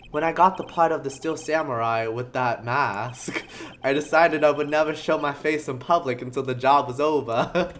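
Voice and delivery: put-on sleepy New York accent, laughter creeping in; soft New Yorker. Actor explains his mask to lawyers, soft New York accent. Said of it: "sleepy New Yorker".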